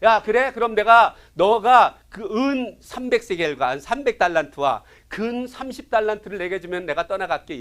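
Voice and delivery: loud, slow, lordly demand from a conquering king; boastful king. Acted. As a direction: speak down to a beaten vassal, slow and loud. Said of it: "아수르 왕 사네립이 얘기를 하는 거예요". (거만한 왕의 느리고 큰 목소리)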